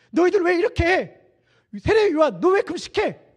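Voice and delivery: loud, high-pitched acted challenge; persecuting accusation. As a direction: accuse them like a hostile crowd. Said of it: "라고 박해하고".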